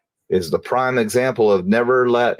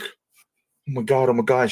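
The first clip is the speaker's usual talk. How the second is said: horrified gasp; 2 semitones higher than usual. Retold or imitated. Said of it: "And she's like".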